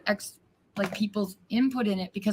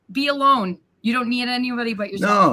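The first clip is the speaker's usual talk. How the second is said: self-mocking quote; 3 semitones higher, 6 dB louder than usual. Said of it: "I'm sounding like".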